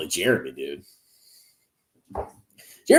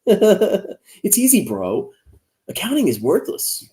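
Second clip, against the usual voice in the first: high, very slow dopey bro voice; mock bro; 10 semitones higher, slower than usual. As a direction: play a clueless finance bro, stretched out and high. Mocks a rival influencer.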